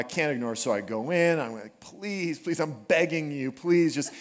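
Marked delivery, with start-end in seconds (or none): 1.8-4.1 mock pleading. Begging daughter to be quiet.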